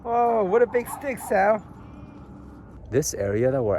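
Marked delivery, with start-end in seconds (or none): 0.0-1.6 pet talk voice. Real, not acted. Talking to the dog.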